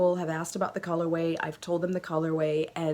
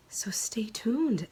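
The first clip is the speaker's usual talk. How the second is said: whispered; 4 semitones higher, much slower than usual. Real, not acted. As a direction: breathe it like a secret. Teasing sign-off whisper.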